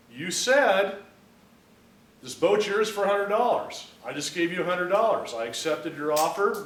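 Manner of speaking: high, loud acted insistence; insistent protest. Buyer insisting to the owner it's a deal, acted protest.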